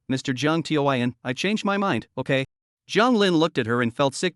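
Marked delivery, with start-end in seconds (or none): 0.1-2.4 whiny voice. Acted. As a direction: wheedle him like a spoiled girl. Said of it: "said in a whiny voice".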